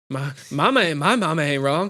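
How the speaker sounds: halting, put-on simpleton protest; Waterboy. Student defending mother to professor, halting mock protest. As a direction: stammer out a wounded comic defence. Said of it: "And he's like".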